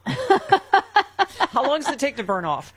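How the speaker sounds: giggling through the words; laughing. Real, not acted. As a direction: laugh it out, slowly. Laughing after drunk joke.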